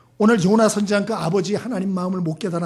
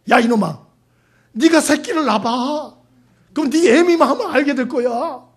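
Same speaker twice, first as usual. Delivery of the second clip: louder, higher exasperated retort; mock motherly scolding; 5 semitones higher, 6 dB louder than usual. Mother answering her youngest son's complaint, hammed-up scolding. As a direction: act out a mother telling off her son.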